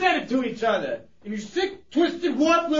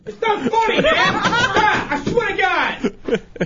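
angry laughing shout; 5 semitones higher than usual. Acted. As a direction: yell it while laughing. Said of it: "You're getting all choked up over there".

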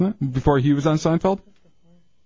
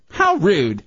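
Stephanie Tanner impression; 4 semitones higher than usual. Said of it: "she always had that".

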